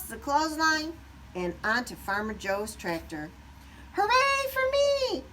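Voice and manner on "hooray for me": high, louder triumphant shout; shouted cheer. A narrator's reading. Wing atop the tractor, triumphant high shout. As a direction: cheer for yourself from the top. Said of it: "Wing shouted".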